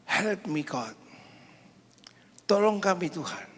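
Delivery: preacher acting out a panicked cry for help; people screaming. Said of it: "orang berteriak".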